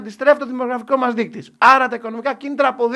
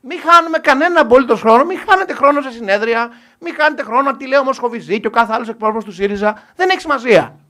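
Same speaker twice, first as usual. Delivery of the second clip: loud rallying; 9 dB louder than usual. Real, not acted. Rallying the audience, rising oratory.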